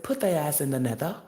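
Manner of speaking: loud, emphatic mock decree; hammed-up loud pronouncement; switched-up loud voice. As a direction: boom it out like a ruling from on high. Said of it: "I even switched my voice up".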